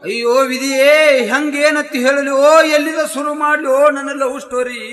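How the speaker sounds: hammed-up wailing lament; theatrical lovelorn moan; mock lament. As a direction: bemoan fate with stretched-out vowels. Comic lament before telling love story.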